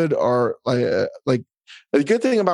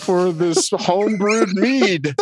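slow mock grateful thanks; 3 semitones higher, much slower than usual. Mock thanks for odd gift.

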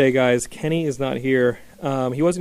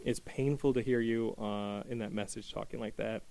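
emotional; 4 dB quieter than usual. Real, not acted. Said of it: "I hate to get emotional".

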